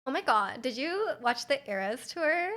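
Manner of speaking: lightly put-on Valley girl, drawn-out question; Valley girl accent. Streamer pretending to be from California, mild Valley girl accent. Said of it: "Do I sound like I'm a Valley girl?".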